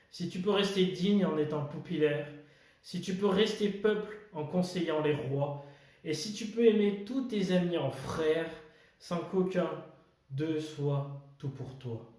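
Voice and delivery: measured verse with pauses between lines; poem recitation. Acted. Host reading Kipling's If to viewers, poem recitation. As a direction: recite it line by line, weighing key words.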